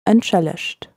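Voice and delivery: drawn out a little for learners; said slowly. Shown as a demonstration. Teacher repeating the word slowly for listeners. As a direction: give it slowly, syllable by syllable. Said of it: "I'll say that slowly again".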